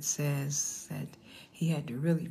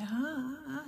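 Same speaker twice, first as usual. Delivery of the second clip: high mock newborn wail, kept light; imitated baby crying; 9 semitones higher, 5 dB quieter than usual. Grandmother mimics her newborn granddaughter answering her, mock crying. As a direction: imitate a baby's halting cry without full force. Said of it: "she went to screaming some more".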